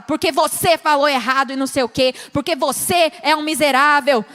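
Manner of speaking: hammed-up angry blaming demo; accusing. Shown as a demonstration. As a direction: hurl the blame at them. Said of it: "chegar e falar".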